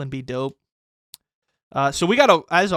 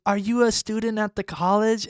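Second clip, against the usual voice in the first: imitating the lady; 4 semitones higher than usual. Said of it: "And she goes".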